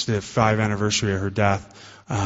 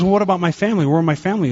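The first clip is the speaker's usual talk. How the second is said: put-on higher and louder, an alarmed drunk's protest; desperate drunk; 8 semitones higher, 3 dB louder, faster than usual. Drunk begging God about his family, higher and louder. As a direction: cry out for the family.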